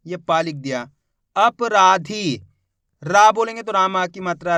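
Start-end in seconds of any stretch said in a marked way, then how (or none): 1.4-2.4 अपराधी spoken very slowly, each syllable clear; slow clear dictation. Shown as a demonstration. Teacher dictating to students, very slow and clear. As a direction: stretch अपराधी out so the class hears every sound. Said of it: "अच्छे से सुनो किस तरीके से इसका उच्चारण हो रहा है".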